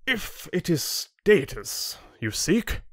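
slow, high-pitched lordly voice; haughty chieftain. Acted. Chieftain offering Rin a route to status, haughty. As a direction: dangle it before him condescendingly.

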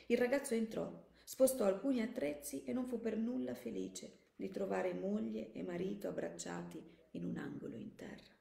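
measured audiobook narration; composed narrator, phrase by phrase; story narration. A narrator's reading. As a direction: read the story aloud with care.

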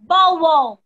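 loud, falling "bow wow"; dog bark. Shown as a demonstration. Teacher showing children the dog's sound, loud bark imitation. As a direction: imitate a dog for the class to copy. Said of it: "The dog says".

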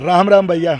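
loud rustic Haryanvi greeting; rough rustic Haryanvi accent. Real, not acted. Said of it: "बिल्कुल हरियाणवी लहजे में".

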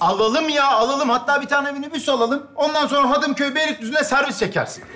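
high, exasperated sarcasm; irritated. Acted. Boyfriend answering girlfriend's shopping list, irritated high-pitched sarcasm. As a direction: agree far too readily, clearly fed up. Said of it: "Sen biraz sinirlisin".

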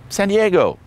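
high-pitched mock-girly answer; perky imitation of her answer; imitated eager girl. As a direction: sing it out high, falling at the end. Imitates girl answering, versus his reply.

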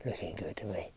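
low, very soft whisper; hushed whisper. Real, not acted. Angler watching fish approach the bait, whispering. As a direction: whisper it under your breath.

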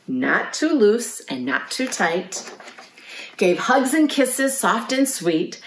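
soothing picture-book ending, slowing down; reading to children. A narrator's reading. Mother sheep tucks the lamb in, soothing storytelling.

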